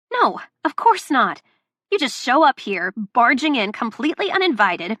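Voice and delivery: loud, biting sarcasm; mock him sharply; sarcastic rant. Delilah sarcastic at Luca, loud and biting. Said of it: "this rant".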